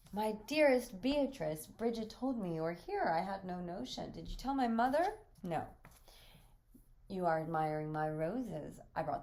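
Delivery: effusive male visitor. Acted. Visitor greeting his dearest Beatrice, lightly effusive.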